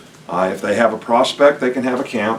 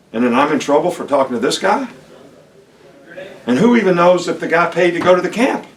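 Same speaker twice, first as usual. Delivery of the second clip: passionate; 4 semitones higher than usual. Real, not acted. Coach rants about satellite camps.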